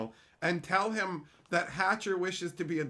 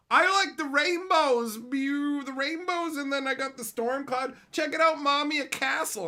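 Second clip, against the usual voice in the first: put-on childish kid voice; 9 semitones higher, 6 dB louder than usual. Mocking emoji users as a child, high kid voice. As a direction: show mommy your drawing, squealing.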